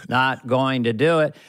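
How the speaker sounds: low, deliberate Bush catchphrase; a hint of Bush, measured; George Bush Senior. Bush's famous line, low and measured. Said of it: "George Bush Senior".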